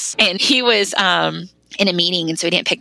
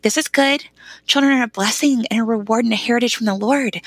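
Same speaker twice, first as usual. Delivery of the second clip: higher-pitched imitation of a comforting husband; retold reassurance; 5 semitones higher than usual. Husband telling weeping wife children are blessings, retold reassurance. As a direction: lightly act out gentle encouragement, pitched up.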